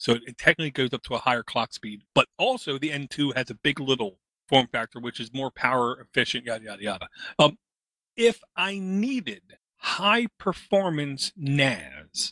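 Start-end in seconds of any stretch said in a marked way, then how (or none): 8.2-12.3 slow, deliberate phrasing. Weighing which storage device he needs, speaking slowly to be sure he's truthful. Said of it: "I'm saying this slow".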